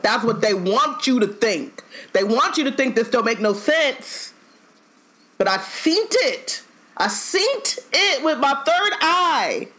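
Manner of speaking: rising, drawn-out conspiracy preacher; Hotep Ernie. Retold or imitated. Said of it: "he put out his best Hotep Ernie".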